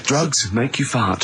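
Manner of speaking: deadpan slogan. Pretend. Mock advert slogan.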